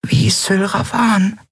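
high, slow fairy whisper. Acted. Tiny Nelen whispering from Endriel's hand. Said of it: "flüsterte Nelen".

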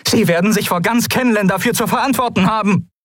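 determined officer reading out demands; Kalin's voice. Acted. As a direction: speak up with formal, measured resolve. Kalin continues calling out.

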